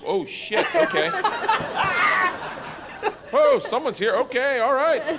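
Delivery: high startled squeak. Retold or imitated. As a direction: jump in shock, voice shooting up. Acting shocked onlookers.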